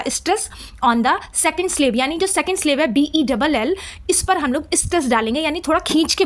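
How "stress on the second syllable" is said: slow dictation. Shown as a demonstration.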